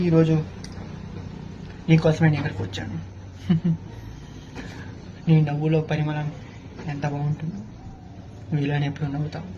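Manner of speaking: soft, tender love lines for the heroine; romantic film hero. Acted. Actor on set reciting love lines to the heroine, softly. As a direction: woo her gently, like a film hero.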